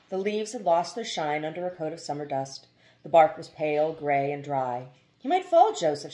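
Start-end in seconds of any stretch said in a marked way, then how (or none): 5.2-6.1 high, loud anxious warning. A narrator's reading. Mother warning husband about the baby, high and anxious. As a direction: cry out a worried caution. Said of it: "she warned him".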